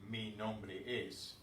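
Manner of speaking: slow, spelled-out mi nombre es; slow demo. Shown as a demonstration. Teacher to class, slow careful demo. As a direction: lay out mi nombre es slowly, word by word. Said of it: "We don't say".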